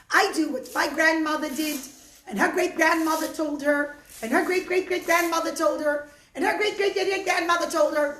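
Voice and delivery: put-on high, cracking old lady voice; old woman voice. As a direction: speak like a frail grateful old woman.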